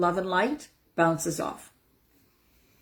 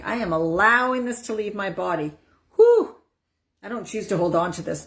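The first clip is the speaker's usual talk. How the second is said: releasing breath demo. Shown as a demonstration. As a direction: blow the feeling out with big breaths. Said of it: "you're like".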